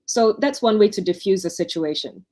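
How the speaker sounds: usual speaking voice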